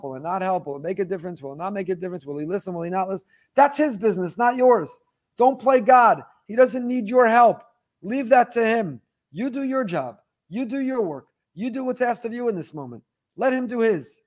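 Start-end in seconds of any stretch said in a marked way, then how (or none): 3.5-14.2 higher and louder, hammering each command; forceful preaching. Acted. Rabbi rebuking the congregation about playing God, forceful. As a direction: drive the rebuke home from the pulpit.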